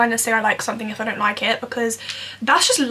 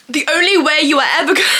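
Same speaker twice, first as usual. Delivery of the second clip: louder, quick mock motivational influencer; hammed-up social media pep talk; fake TikTok persona; 3 semitones higher, 5 dB louder, faster than usual. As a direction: put on a fake attention-grabbing TikTok voice. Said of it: "put up this fake facade".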